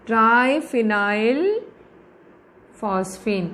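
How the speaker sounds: drawn-out syllables with a long pause between words; slow dictation. Shown as a demonstration. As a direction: dictate it very slowly as you write. Teacher dictates name while writing it. (लिखते हुए, खींच-खींचकर धीरे बोलना)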